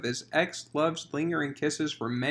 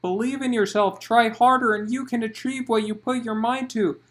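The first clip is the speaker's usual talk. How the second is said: encouraging; 5 semitones higher, 3 dB louder than usual. Acted. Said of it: "did her best to encourage her".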